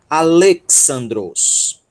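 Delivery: Alexandros sounded out slowly and deliberately; careful, drawn-out Alexandros; pronunciation demo. Shown as a demonstration. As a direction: slowly model the word Alexandros. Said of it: "treinamento aqui na pronúncia".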